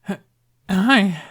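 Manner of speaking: high, cracking squeak of a hi; nervous squeak. A narrator's reading. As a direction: voice cracks upward in panic. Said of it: "he squeaked".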